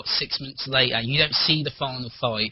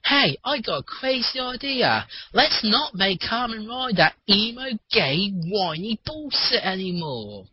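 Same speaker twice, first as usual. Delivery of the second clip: high, eager producer voice; mock excited pitch; 7 semitones higher than usual. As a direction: pitch it like a bright idea.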